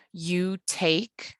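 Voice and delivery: "you take" as an iambic pair, weight on TAKE; unstressed-stressed pair. Shown as a demonstration. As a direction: count out "you take", short then long. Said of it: "unstressed and stressed syllables repeating".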